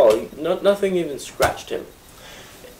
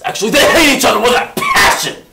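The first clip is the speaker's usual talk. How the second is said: laughing; 10 semitones higher, 7 dB louder than usual. Real, not acted. Laughing correction about the enemies.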